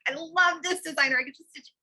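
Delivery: high, loud, smitten gushing; gushing excitement. Retold or imitated. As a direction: swoon over another designer. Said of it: "I'm like".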